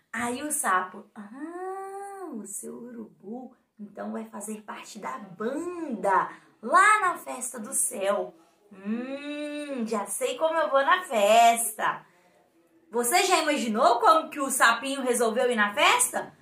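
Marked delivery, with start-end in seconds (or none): 1.1-12.0 softer sly frog voice, a touch scheming. Acted. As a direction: hush it like a frog with a secret plan. Frog speaks, scheming quietly. (sapinho esperto, falando baixinho)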